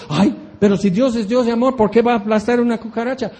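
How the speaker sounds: whiny objection. Retold or imitated. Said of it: "Y decimos".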